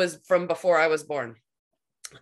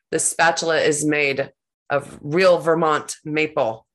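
indignant; 8 dB louder than usual. Retold or imitated. Furious client defends spatula.

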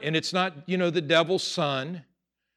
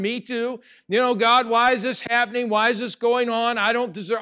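mock whining; 6 semitones higher, 3 dB louder than usual. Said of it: "you're all boo-hooing".

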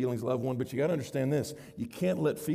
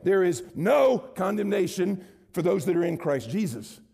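"no" hit louder and held, the rest of the verse rising to it; stress on NO; 3 semitones higher, 4 dB louder than usual. Shown as a demonstration. Preacher quoting Romans, stressing "no" to the students. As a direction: lean hard on the word "no". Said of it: "And the emphasis is on no".

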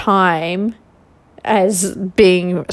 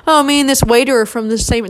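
quick, higher mock brag about sharing roots with the waiter; mock pompous boast; 5 semitones higher, 3 dB louder, faster than usual. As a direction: parody a show-off claiming French roots. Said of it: "I'm not walking around being like".

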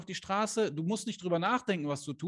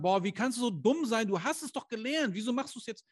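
scolding parent; 5 semitones higher than usual. Retold or imitated. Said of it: "Würdest du dein Kind verurteilen und sagen".

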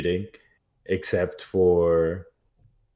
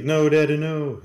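high, hammed-up plea; mock pleading; 8 semitones higher, 3 dB louder than usual. Disowned son begging his father's spirit, mock pleading. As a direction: imitate a child begging Daddy, pitched up.

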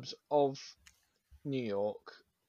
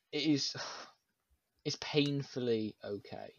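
sighed, slow, breathy verdict; scathing critique; 4 dB quieter, slower than usual. Real, not acted. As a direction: let it out on a tired sigh. Weary verdict on the sequel.

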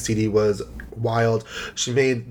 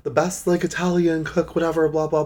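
gushing friends; 6 semitones higher than usual. Retold or imitated. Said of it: "everyone's always like".

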